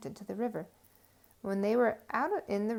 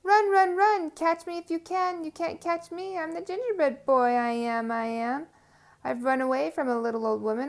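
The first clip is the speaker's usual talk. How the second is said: shouting taunt; 3 semitones higher, 5 dB louder than usual. Acted. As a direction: shout the whole boast at the fox.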